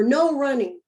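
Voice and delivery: hushed mock whisper of the rule. Shown as a demonstration. Teacher whispering the old rule to the class. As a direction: breathe it out with no voice. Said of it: "put up rules like".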